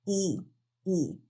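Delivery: soft, stretched I with the lips spread; smiling long I. Shown as a demonstration. Teacher shows the effort of a smiling I. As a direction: hold a wide smiling I. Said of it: "hay que hacer esfuerzo en estos músculos".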